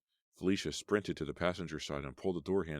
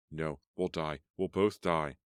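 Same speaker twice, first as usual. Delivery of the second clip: rising panic, louder at the end; terrified shout before impact; panicked cry; 5 dB louder, slower than usual. Acted. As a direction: scream it as the crash comes. Crash about to happen, terror.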